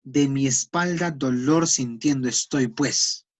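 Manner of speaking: a light Andean Spanish lilt, slow. Shown as a demonstration. Teacher showing students Andean Spanish, slow light Andean accent. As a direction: ease into a hint of Andean Spanish, slow and even. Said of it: "¿Cómo habla el castellano andino?".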